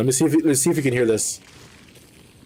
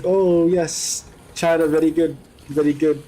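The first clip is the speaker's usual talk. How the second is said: higher, exaggerated Malaysian-Chinese accent; mock Uncle Roger accent; 4 semitones higher than usual. Friend retelling a comedian's bit, mock Malaysian-Chinese accent. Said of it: "He's like".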